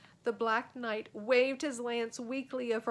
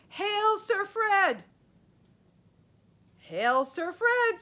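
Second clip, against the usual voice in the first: slow, higher, louder knightly salute; knights' hail; 10 semitones higher, 9 dB louder, slower than usual. A narrator's reading. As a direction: ring out a formal greeting. Knights hail Fred solemnly.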